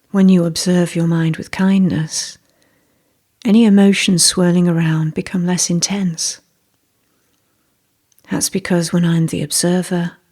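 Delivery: calm, unhurried meditation guide with long pauses; guided meditation. Real, not acted. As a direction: gently lead the listener inward, leaving space.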